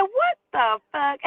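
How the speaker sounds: high, slow disbelieving; incredulous. Retold or imitated. Teen girl to guy, stunned slow disbelief. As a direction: drag it out amazed.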